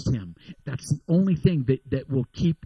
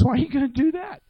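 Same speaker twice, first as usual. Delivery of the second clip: bear voice; 11 semitones higher, faster than usual. Retold or imitated. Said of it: "And the bear says".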